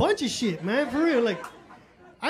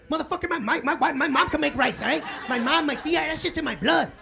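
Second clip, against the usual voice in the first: mock angry wife; 4 semitones higher than usual. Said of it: "she went off on me".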